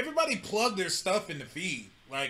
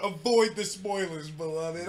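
slow, weighty sign-off; mock-profound catchphrase, falling away at the end; significant-sounding catchphrase; 2 semitones lower, slower than usual. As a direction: say it slowly like solemn counsel. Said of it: "it sounded so significant".

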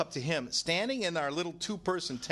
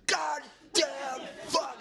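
retold yell; 6 semitones higher, much slower than usual.

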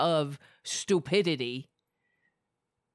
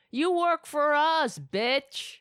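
loud angry retort; 9 semitones higher, 4 dB louder, much slower than usual. Real, not acted.

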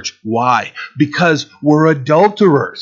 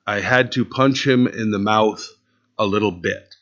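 mock repeat; 3 semitones lower, 4 dB quieter than usual. Pastor repeating the boy's excuse to the congregation, mock disbelief. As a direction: let it sink in, lower and softer. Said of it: "So you punched him in the mouth".

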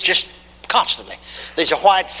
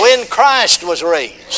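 preaching call; 2 semitones higher, much slower than usual. Acted. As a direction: chant it out line by line. Call and response.

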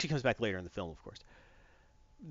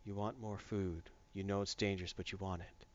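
low, much softer mystic murmur; fish whisperer; 6 semitones lower, 11 dB quieter than usual. Retold or imitated. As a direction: commune gravely with a goldfish. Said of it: "It's like".

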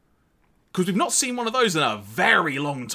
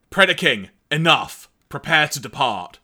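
louder, curt commander's order; Cyclonus command; 4 dB louder than usual. Retold or imitated. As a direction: call the brute to heel. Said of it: "Cyclonus says".

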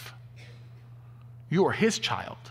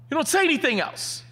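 stern father; 13 semitones higher, 5 dB louder than usual. Retold or imitated. Father scolding son.

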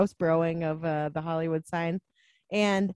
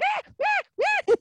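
short, very high-pitched mock shrieks; squealing imitation of a jumpy screamer; imitated screams; 3 dB louder, slower than usual. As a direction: yelp in mock fright, way up high. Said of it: "like, screaming".

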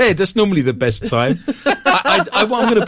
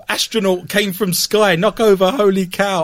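uneducated villager; 4 semitones higher than usual. Acted. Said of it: "Can you imagine if you're uneducated".

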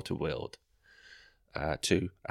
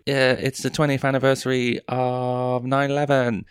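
mock audience member; 6 semitones higher, 6 dB louder than usual. Audience member voiced in bit.

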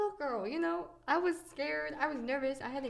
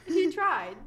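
laughing, higher and louder; 5 semitones higher, 7 dB louder than usual. Real, not acted. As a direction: crack up at the memory. Laughing about the missed leg.

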